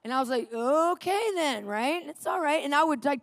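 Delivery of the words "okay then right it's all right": higher, drawn-out placating okay; lightly pitched-up soothing; trying to calm. Retold or imitated. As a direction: act out careful appeasing. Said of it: "try to calm him down".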